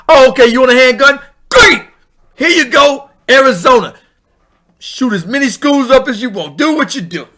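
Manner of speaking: hammed-up sarcastic salesman; mock cheerful handout. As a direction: hand it over with fake glee. Mock governor handing out guns.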